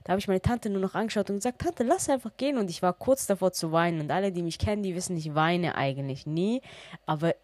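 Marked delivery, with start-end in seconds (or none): 1.6-2.6 high pleading voice; desperate high plea. Retold or imitated. Begging her aunt to leave the closed clinic, desperate and high. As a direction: beg her aunt, near tears.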